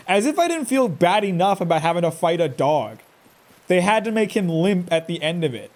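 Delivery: ordinary talk, nothing marked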